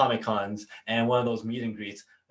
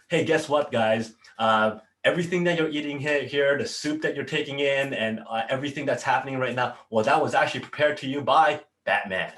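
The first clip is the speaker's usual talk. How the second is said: raised announcer-like delivery; retold microphone announcement; 2 semitones higher, 5 dB louder than usual. Manager announcing Batman to the soup kitchen, loud announcement. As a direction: address a crowd over the mic. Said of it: "went up to the microphone and goes".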